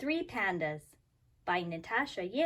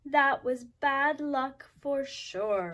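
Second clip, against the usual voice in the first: dismayed; 3 semitones higher, slower than usual. Acted. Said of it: "Goldie cried".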